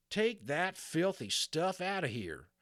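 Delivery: slow, loud, high Texas cowboy yell; Texas accent shout. Acted. Angry Texas cowboy yelling at the boy over water. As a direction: bark it out in a Texas drawl. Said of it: "he suddenly shouted in his strong Texas accent".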